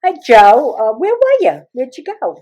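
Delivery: high, sing-song fake innocence; feigned calm. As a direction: imitate mom acting as if nothing's wrong. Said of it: "my mother got all calm. Like nothing was wrong".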